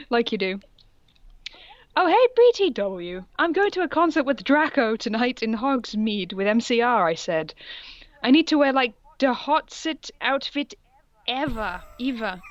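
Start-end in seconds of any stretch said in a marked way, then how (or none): 2.0-12.4 put-on higher, excited gossipy teen; a hammed-up mall goth; mock valley girl. Reading fanfic dialogue aloud.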